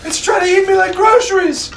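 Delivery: loud high panicked yell; panicked shout. Acted.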